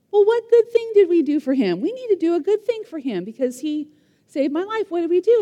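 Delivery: the king suddenly keen to repay a debt; a lightly voiced excited king; eager king. King asks, eager to reward.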